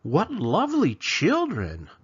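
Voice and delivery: put-on slow, sugary old witch, rising high; sweet witch voice. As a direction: lure the children in sweetly. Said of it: "the old woman who lived there came out and said".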